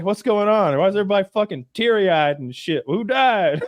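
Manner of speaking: high, exasperated questioning; mock baffled homecoming; bewildered Englishman. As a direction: demand to know what happened, acted. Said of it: "he's like".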